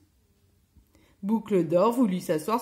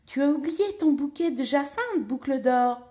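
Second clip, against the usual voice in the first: higher, lightly voiced middle bear; medium bear voice; 6 semitones higher than usual. A narrator's reading. Middle bear calls after Goldilocks, medium voice. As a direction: call it out in a medium voice. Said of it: "de sa moyenne voix".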